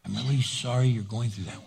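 hushed, gentle apology; soft whisper back. Shown as a demonstration. Preacher showing a whispered reply to an angry person, hushed. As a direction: whisper it to calm them. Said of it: "whisper back".

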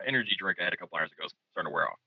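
fast tired rattle; rushed. Real, not acted. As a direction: rush through it, worn out. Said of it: "getting tired".

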